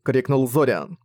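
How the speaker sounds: ordinary delivery, nothing marked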